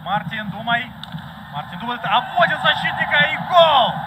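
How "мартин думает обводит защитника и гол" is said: excited hockey goal call. Real, not acted. Live hockey goal commentary.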